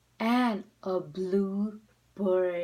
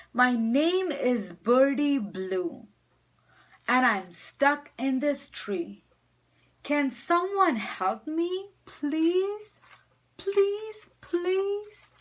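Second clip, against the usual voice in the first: climbing higher, begging please; loud pleading call; 5 semitones higher, 3 dB louder than usual. Acted. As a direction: call out as loud as a little bird can. Bird calls loud as can.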